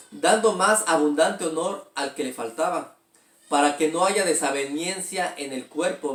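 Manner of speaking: steady, measured Bible reading voice; scripture reading. Acted. Pastor reading scripture aloud to the congregation, measured and steady. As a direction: read the verse out to the church.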